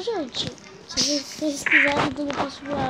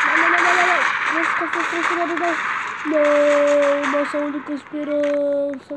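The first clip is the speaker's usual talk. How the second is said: mock dismay; 6 dB louder than usual. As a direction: wail as your last hope falls, half in play. Teammate being killed in game. (desespero fingido, mais alto)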